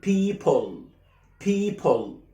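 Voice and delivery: "people" said as "pee-pol"; drawn-out "people" with o before l; added O. Shown as a demonstration. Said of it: "بتحط O من عندك". (نطق "people" بإضافة O)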